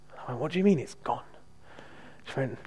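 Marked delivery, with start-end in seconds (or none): 0.4-1.2 mildly surprised, raised question. Retold or imitated. Preacher retelling surprise that her pain is gone, mildly surprised. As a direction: caught off guard by the news. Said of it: "I was a bit surprised".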